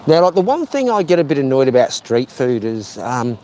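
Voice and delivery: talking while chewing; eating while talking; mouth full. Real, not acted. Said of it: "apologies for eating with, with my mouth open".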